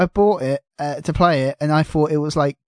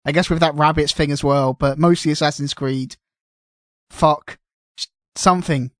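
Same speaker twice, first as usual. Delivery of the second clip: mock-desperate, louder marketing voice; panicked marketer; 4 dB louder than usual. Someone in marketing scrambling for anything to announce, mock panic. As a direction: blurt it out like a marketer grasping at straws. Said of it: "someone in marketing going".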